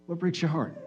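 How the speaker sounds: soft, far-off asking of the question; hushed question. Acted. Preacher hushing the room for the key question, softly. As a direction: let it land quietly.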